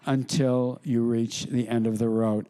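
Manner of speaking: slow, drawn-out patrician drawl; lightly voiced grand Buckley. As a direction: stretch out the fancy words like Buckley. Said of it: "He sounds the same as he does on television".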